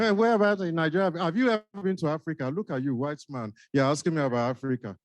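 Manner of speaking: lightly put-on Nigerian accent, playful; a Nigerian newcomer teasing the doctor, accent only hinted. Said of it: "You have just triggered the next role play".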